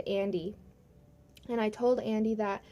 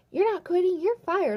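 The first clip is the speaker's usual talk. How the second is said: louder, higher, imitating a boss's retort; angry boss; 8 semitones higher, 5 dB louder than usual. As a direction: fire back as the irate boss. Boss's retort in acted quarrel.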